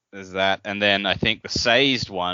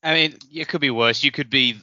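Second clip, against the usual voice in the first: teasing laugh; 6 semitones higher, 4 dB louder than usual. Real, not acted.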